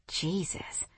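soft, shaken exhale; shuddering breath. Acted. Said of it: "I nearly shuddered".

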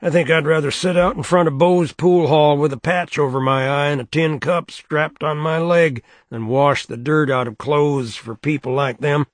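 heavy, authoritative, mocking her betters; gossipy washerwoman. Helm's voice.

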